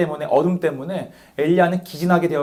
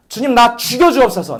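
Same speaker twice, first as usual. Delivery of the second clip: Elijah's plea; 4 semitones higher than usual. Acted. Elijah begging God to take his life, pleading. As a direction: beg God to end it, pressing. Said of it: "엘리야가 말하는 거죠".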